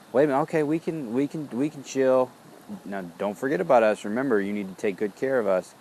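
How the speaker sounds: a startled helper backing off but pleading to be cared for; surprised fatigue voice. Retold or imitated. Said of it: "the fatigue kinda went".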